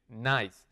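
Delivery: "Nice" in one single beat; one syllable. Shown as a demonstration. Teacher repeating the word for students, "Nice" as one beat. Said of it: "Un solo golpe, miren".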